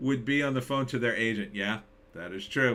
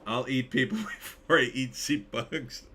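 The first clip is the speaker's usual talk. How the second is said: character voice, laughing. Shown as a demonstration. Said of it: "I read that like some character".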